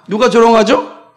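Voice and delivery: usual speaking voice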